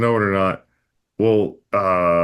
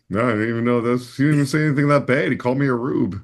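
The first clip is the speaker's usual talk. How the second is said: dumb me; 5 semitones higher, faster than usual. Retold or imitated. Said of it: "I'm dumb enough where I'd be like".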